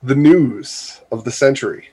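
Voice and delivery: mock-grand announcer with long pauses; lightly hammed-up announcement, spaced out for suspense. Host announcing friend's wedding as world news, mock announcer voice. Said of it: "say it in my announcer voice".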